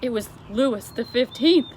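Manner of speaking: lightly voiced queen, a touch miffed; a hint of a prim, put-out queen; Queen slightly put out. A narrator's reading. The Queen explains the chandelier, slightly put out. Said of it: "looking slightly put out".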